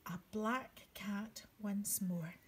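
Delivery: slow whispered reveal. A narrator's reading. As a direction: whisper the surprise. Hushed reveal to children.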